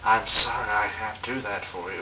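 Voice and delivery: lightly imitated calm computer voice; hint of an impassive machine refusing; Hal impression. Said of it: "a bit more of a Hal appearance".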